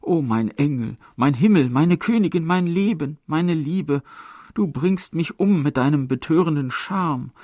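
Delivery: a hint of a desperate suitor; pleading man's voice. A narrator's reading. Lover begging his beloved, lightly voiced pleading. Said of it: "wieder die Männerstimme".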